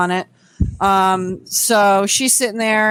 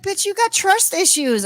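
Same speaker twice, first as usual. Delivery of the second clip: much higher, sassy retort; sassy friend; 9 semitones higher than usual. Retold or imitated. Friend telling the husband off, high and sassy. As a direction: fire it back with attitude.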